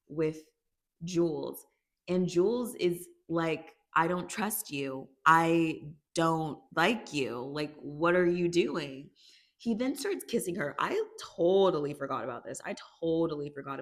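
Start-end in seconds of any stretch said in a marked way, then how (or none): 3.9-9.1 mock confrontation. Acts out Jules confronting Nate.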